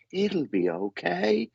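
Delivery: high, slow easygoing reassurance; lightly voiced calm old man; laid-back gentleman. Gentleman reassuring the sitter, slow and high. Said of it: "He's so laid back".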